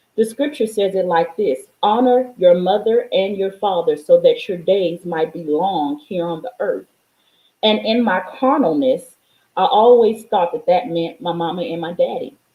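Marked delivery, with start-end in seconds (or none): none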